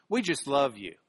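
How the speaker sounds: hint of a churchgoer praying "We just love you"; mock prayer voice. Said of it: "in their prayers do it like this".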